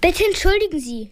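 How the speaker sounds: father apologises to his boss, flustered; blurted apology. A narrator's reading. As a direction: gasp out an embarrassed sorry. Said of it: "stößt er hervor".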